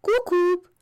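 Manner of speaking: high, teasing Cucù; mocking cuckoo. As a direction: keep needling them with a high Cucù. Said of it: "in segno di canzonatura".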